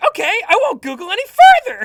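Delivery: shrill, very loud, squeaky cracking voice. Retelling own earlier reaction while googling: imitating own voice crack. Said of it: "a really funny voice crack where I'm like".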